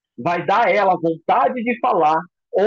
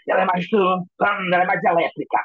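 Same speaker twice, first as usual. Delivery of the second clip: hurried imitation of a hyper person; accelerated, electric. Shown as a demonstration. Teacher showing students the more electric type, sped-up and jittery. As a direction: rattle it out, wired. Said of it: "aquela pessoa que ela é mais acelerada".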